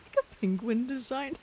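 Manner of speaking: delighted disbelieving rise; surprised. Real, not acted. Surprised at a penguin design.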